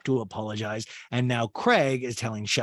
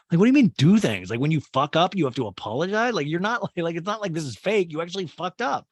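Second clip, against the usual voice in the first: exasperated rant; 6 semitones higher, 5 dB louder than usual. Real, not acted. Host outraged at the show.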